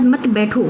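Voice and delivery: "मत बैठो" as a separate phrase; मत grouped with बैठो. Shown as a demonstration. Teacher shows the misheard meaning, मत joined to बैठो. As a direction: start afresh on मत, run into बैठो. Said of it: "जो comma लगा दिया है".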